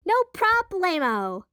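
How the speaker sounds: slow, high, cheerful exclamation; exclaimed. Acted. Cinnamon to her sister about the phone, bright exclamation. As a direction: stretch it out with glee. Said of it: "exclaimed Cinnamon".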